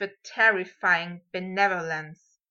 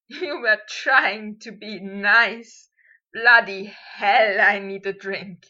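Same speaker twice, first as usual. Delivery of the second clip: laughing; 5 dB louder, slower than usual. A narrator's reading. Potter still laughing.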